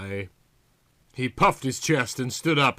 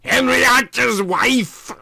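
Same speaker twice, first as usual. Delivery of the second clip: Yvonne's voice; 11 semitones higher, 7 dB louder than usual. A narrator's reading. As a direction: play her sultry and unhurried.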